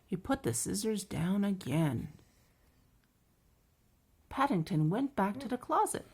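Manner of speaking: measured, lively picture-book narration; children's story reading. A narrator's reading.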